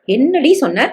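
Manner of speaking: sharp high rise of outrage; can't believe what she just said; shocked disbelief. Acted. Husband outraged at his wife's cruel words, high shocked rise.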